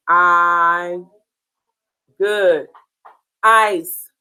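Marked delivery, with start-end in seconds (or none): 0.1-1.0 "I" drawn out like the word eye; long I sound. Shown as a demonstration. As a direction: hold a clear long "I" on one level note. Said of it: "Make the I sound".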